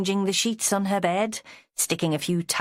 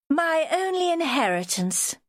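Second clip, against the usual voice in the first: higher, posh aristocratic lady; 11 semitones higher than usual. A narrator's reading. Joanna showing Vera her glass, posh aristocratic lady. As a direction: speak like a sixties BBC aristocrat. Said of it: "She spoke like an aristocrat".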